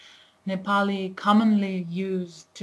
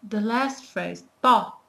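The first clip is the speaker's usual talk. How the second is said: whispered aside; 2 semitones higher, 4 dB louder than usual. Real, not acted. Brief whisper while explaining.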